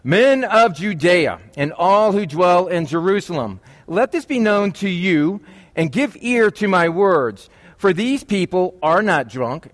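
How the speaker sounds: slow, emphatic scripture proclamation. Acted. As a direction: proclaim it to a crowd, drawing out each phrase. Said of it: "lifted up his voice and addressed them".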